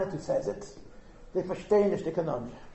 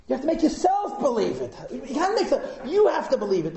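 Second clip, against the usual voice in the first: laughing through the words; amused laughing delivery; 5 semitones higher than usual. Real, not acted. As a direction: chuckle as you explain it. Laughing while explaining.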